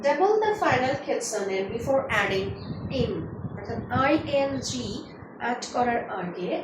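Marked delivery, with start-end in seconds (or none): 0.0-3.1 slow dictated rule. Shown as a demonstration. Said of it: "আরো কিছু rules আছে।".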